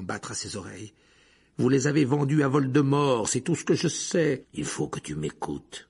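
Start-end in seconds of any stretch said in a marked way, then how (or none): 1.6-4.4 angry accusation. Acted. Harry accuses Black. 4.5-5.9 low, slow, tense plea; much lower, slower and softer. Acted. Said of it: "d'une voix soudain tendue".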